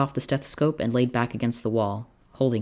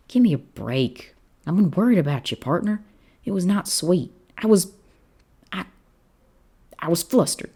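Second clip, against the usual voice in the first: higher, flustered cowboy protest; 7 semitones higher, 4 dB louder than usual. A narrator's reading. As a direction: deny it, all flustered.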